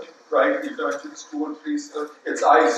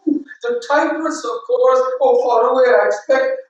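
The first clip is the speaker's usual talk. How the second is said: higher, louder lilting mother; mother's answer; 6 semitones higher, 5 dB louder than usual. Acted. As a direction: brush the question off lightly.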